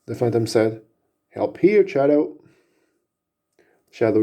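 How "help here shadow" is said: high, loud plea to a partner; urgent call for help. Acted. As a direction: cry out to an ally mid-fight. Phantom calls ally for help.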